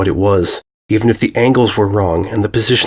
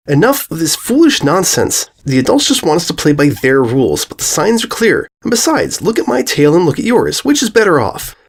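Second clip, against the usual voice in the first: put-on high haughty girl voice; haughty filly; 6 semitones higher than usual. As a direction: scoff at the nonsense. Bully scoffs.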